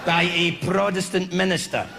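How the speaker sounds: lightly voiced nasty teacher lecturing slowly; science teacher. Teacher presenting toads to the class, mildly gruff.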